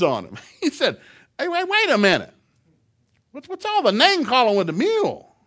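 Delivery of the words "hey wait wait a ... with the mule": high, loud puzzled holler; calling after someone. Retold or imitated. Coach puzzled, stopping the departing farmer, calling after him. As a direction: call out to stop him, baffled.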